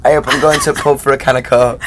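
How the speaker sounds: Yorkshire A up with a short u in pub; full Yorkshire line for her to copy. Shown as a demonstration. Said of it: "teach you how to ... in Yorkshire".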